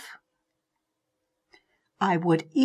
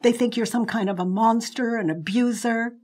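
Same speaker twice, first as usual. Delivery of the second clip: angry retort; 4 semitones higher, 4 dB louder than usual. Retold or imitated. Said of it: "And I said".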